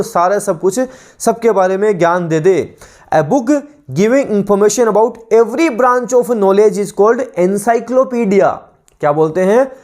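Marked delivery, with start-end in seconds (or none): 3.1-8.5 slow, deliberate reading of a definition for students to copy; measured classroom dictation, every word spaced; dictation pace. Shown as a demonstration. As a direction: read it out word by word like a teacher dictating.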